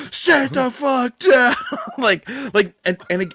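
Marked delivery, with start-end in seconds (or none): 0.1-1.5 high, slow, mock-irritated snap; annoyed fan. Angry Baltimore fans telling the Jays fans off, mock annoyed. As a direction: play the grumpy fan behind them. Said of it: "They were like".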